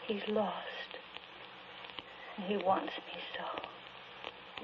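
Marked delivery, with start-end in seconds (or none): 2.4-4.6 slow breathy whisper of longing; a slow whispered ache. Acted. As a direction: barely breathe it, slowly. Grieving widow longing for husband.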